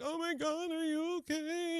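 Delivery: put-on very high, worried young woman's voice; high, breathless girl checking on a crash victim; panicked girl. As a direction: squeak it out like a frightened bystander. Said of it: "She's freaking out".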